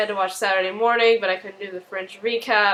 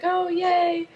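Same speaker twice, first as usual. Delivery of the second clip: put-on excited child; 9 semitones higher than usual. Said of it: "And Ella's like".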